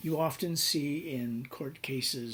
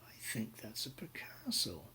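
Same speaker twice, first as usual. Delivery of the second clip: muttered to himself; 8 dB quieter than usual. Retold or imitated. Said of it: "and he goes".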